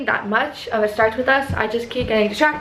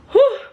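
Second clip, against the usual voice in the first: breathless whew; 11 semitones higher, 6 dB louder than usual. Real, not acted. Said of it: "out of breath".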